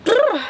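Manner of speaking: high cold shudder; duckling freezing in the cold wind; shivering grr. A narrator's reading. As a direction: shiver through it. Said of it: "holding both of his wings close".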